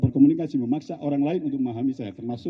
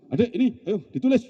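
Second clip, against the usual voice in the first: put-on high, pushy prompt to a child; menyuruh langsung; 7 semitones higher than usual. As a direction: press the child to start, pitched up. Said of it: "Gak mau langsung". (suruhan mendesak bernada tinggi)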